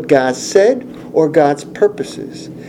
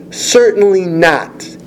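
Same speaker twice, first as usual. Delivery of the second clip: CERTAINLY NOT slow and higher, an emphatic refusal; emphatic negative; 4 semitones higher, slower than usual. Retold or imitated. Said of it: "his answer is another emphatic negative".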